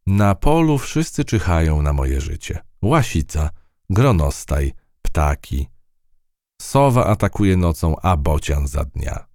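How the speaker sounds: plucky field mouse telling her tale. Acted. Field mouse lists predators.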